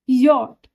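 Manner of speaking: यॉट said clearly as "yot", the German name of J; German pronunciation. Shown as a demonstration. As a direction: spell out यॉट carefully, the German way. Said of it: "इसको हम German में यॉट बोलते हैं". (यॉट को German उच्चारण में साफ़ बोलो)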